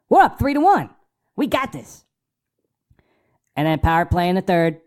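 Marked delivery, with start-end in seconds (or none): 0.1-2.0 high, louder, triumphant; excited. Retold or imitated. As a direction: gloat over the lead. Celebrating the lead.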